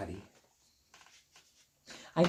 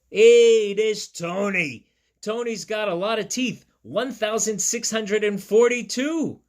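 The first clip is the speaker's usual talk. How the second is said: excited; 5 semitones higher, 7 dB louder than usual. Acted. Excited about Tony's teeth.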